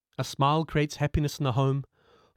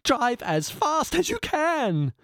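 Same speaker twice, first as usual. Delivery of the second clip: screaming order; 12 semitones higher, much slower than usual. Acted. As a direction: bark the order at the driver in a frenzy. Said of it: "screamed the philosopher".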